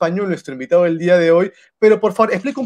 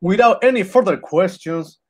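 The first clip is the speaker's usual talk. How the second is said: slow, grand announcer intro. Acted. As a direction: present him like a ring announcer. Announcing the guest.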